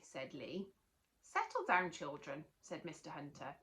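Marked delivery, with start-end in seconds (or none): 1.2-2.4 teacher calming. Acted. Teacher settling noisy children, calling out then easing off.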